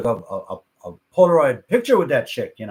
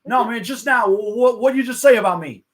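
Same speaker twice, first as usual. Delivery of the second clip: higher, louder retold confrontation; annoyed singer; 6 semitones higher, 5 dB louder than usual. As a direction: press him, imitating an irked star. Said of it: "the singer is annoyed".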